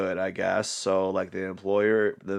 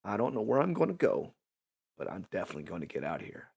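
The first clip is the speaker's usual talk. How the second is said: escape scheming; 10 dB quieter, faster than usual. Retold or imitated. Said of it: "You're like".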